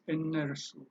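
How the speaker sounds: እነርሱ as e-ner-su, with an r; variant pronunciation. Shown as a demonstration. Teacher repeating the other option, እነርሱ demonstrated with r. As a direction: model እነርሱ softly, keeping the r before su. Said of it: "or you can say".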